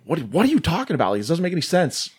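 mildly exasperated retold outburst; retold yelling. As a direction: imitate him snapping at her in exasperation. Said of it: "like, yells at her".

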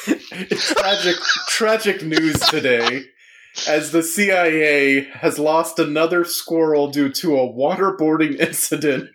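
grave breaking-news report; somber newscaster. Pretend. Parodies a tragic news report.

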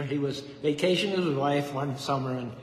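normal talking voice

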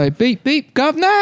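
very high cockney robot urchin; British child robot. Acted. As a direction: chirp it like a street urchin robot. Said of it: "like a British child robot".

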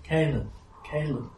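high-pitched fairy queen calling a name; Titania. Acted. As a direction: call out in a high, falling tone, pausing between calls. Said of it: "Familiar voice, Titania, speaking to you".

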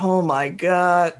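slow, drawn-out mock dismay; imitated exasperation. Mimicking the man upset at whispering, imitated exasperation. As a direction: drag the words out like an upset moviegoer. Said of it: "He was so upset".

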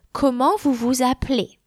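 "Comment vous vous appelez?" falling at the end; falling question intonation. Shown as a demonstration. French teacher giving an example question, falling intonation. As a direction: let the pitch drop through "appelez". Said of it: "The intonation falls".

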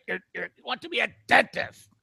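Sam Kinison impression. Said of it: "The speaker doing Sam Kinison".

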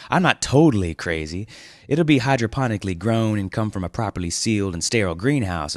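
mild grinning dude; grinning reassurance. Acted. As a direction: reassure him with a grin. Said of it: "Winston grinned".

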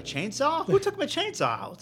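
loud high call out; yelling across the room. Real, not acted. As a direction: shout it to someone in another room.

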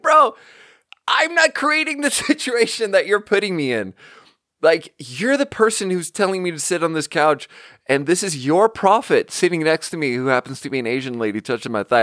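high, incredulous bro rant; high-pitched disbelieving rant at the aunt; exasperated protest. Retold or imitated. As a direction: plead with her, exasperated and disbelieving. Exasperated at aunt's setup.

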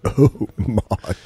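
lightly camp drag voice; a hint of camp drag queen. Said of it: "I just can't go".

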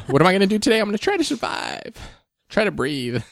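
hammed-up allergy sufferer just surviving; exasperated self-quote. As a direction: play up the misery, then trail away weakly. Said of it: "I was like".

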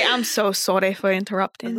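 put-on Scottish accent; Peter Quint. Co-host apologizes for interrupting, mock Scottish accent. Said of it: "we already got Peter Quint".

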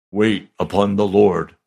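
a touch of solemn authority; magisterial voice. Retold or imitated. The Lord speaking to the pastor, lightly magisterial. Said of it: "he said it in a magisterial voice".

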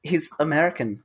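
put-on a light German accent on the line. Telling friends the villain is American, in a German accent. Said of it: "I don't know why I put on a German accent".

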